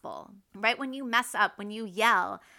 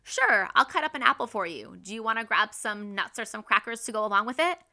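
louder, upbeat "Sure", then easy offer; positive; 4 dB louder, faster than usual. Retold or imitated. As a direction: offer it cheerfully to the kids. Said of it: "That's positive".

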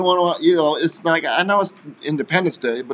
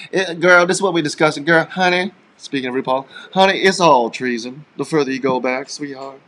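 sassy diva voice; 2 semitones higher, 4 dB louder than usual. Pretend. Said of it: "You know who you sound like?".

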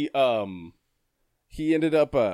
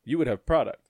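annoyed tone. Retold or imitated. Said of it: "Only I said it with that tone".

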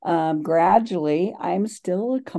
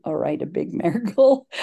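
laughing; faster than usual. Real, not acted. Corrects small miracle, laughing.

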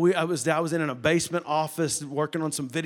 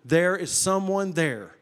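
voice from nowhere; slower than usual. Retold or imitated. The voice answering the man, slow retold assurance. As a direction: answer as a mysterious voice, unhurried, with a pause. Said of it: "that voice told him".

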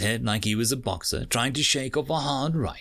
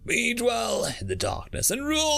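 rallying cry; 10 semitones higher than usual. Acted. Woman rallies the crowd.

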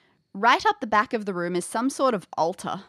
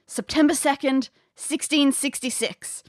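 history teacher voice; 4 semitones higher than usual. Retold or imitated. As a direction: read the date out like a teacher. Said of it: "You can hear it in your history teacher's voice".

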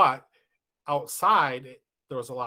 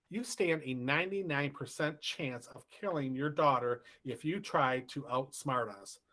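reading the note, slightly raised pitch; shaky ransom note reading. Retold or imitated. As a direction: read it out like a threatening letter. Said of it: "So, um".

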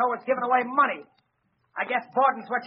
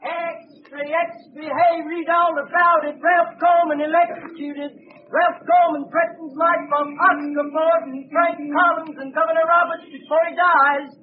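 street hawker crying the headlines; newsboy calling; 2 semitones higher, slower than usual. Acted. Newsboy calling out the headlines to the street. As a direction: call it out to the passing crowd.

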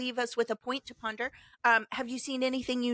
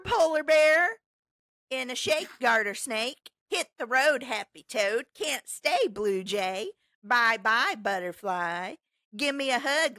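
playful rhyme reading; 5 semitones higher, 4 dB louder, slower than usual. Shown as a demonstration. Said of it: "Here we go".

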